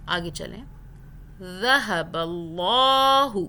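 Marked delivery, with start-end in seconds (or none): 1.4-3.4 ذہب اللہ chanted slowly with a soft tongue-out ذ; soft ذال recitation. Shown as a demonstration. Teacher recites, soft ذال in slow chant. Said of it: "ذال کو soft پڑھنا ہے".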